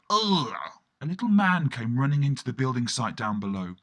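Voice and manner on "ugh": embarrassed ugh. Retold or imitated. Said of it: "be all embarrassed and go".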